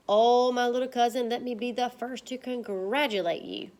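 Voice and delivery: loud gushing oh; teacher rereads excited. Shown as a demonstration. Teacher rereading Trap's excited line, loud oh. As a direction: reread the gush for the class. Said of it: "supports that he is super excited".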